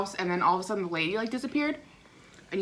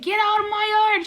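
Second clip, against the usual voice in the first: grandpa voice; 12 semitones higher, 3 dB louder than usual. Retold or imitated. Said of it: "he's like".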